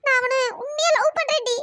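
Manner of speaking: hurt, tearful pleading; choked-up, halting confession; crying. Acted. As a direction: protest through sobs. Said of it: "இங்க வந்து லூசு மாதிரி அழுதுட்டு இருக்க".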